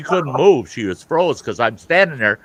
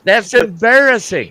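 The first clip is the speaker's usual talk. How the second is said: retold angry scorn; 10 semitones higher, 7 dB louder than usual. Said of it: "I'm bent out of shape".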